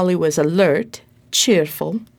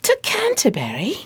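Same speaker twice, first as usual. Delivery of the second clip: whispered dismay; 4 semitones higher than usual. Acted. Dismayed at the long walk.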